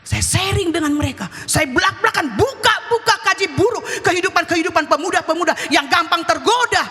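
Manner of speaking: high, emphatic sermon delivery; forceful preaching. Acted. Preaches to the congregation. (khotbah berapi-api)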